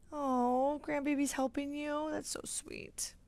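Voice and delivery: soft unvoiced whisper; whispered aside. Real, not acted. Vlogger touched by a viewer's grandbaby, whispered. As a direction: breathe it out tenderly. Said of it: "aside about grandbaby helping".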